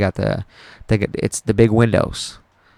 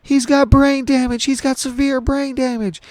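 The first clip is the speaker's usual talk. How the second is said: very high, wailing falsetto; mock anguished wail, pitched way up; imitating bawling mom; 4 dB louder than usual. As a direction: imitate a mother crying out bad news. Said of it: "just fucking bawling and crying".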